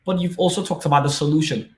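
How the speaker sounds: imagined student asking. Retold or imitated. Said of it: "asking me".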